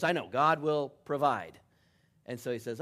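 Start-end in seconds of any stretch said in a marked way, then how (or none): 0.0-1.6 loud, weary "I know, God will provide", falling on "I"; exasperated dad. Retold or imitated. Tired father beating the suitor to his answer, exasperated. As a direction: cut him off and finish his line yourself. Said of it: "and the dad goes".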